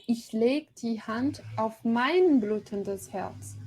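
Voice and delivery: measured, deliberate German verse reading; slow poem recitation. Shown as a demonstration. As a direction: lecturer reading the poem line to her class, slow and rhythmic. Reads German verse slowly.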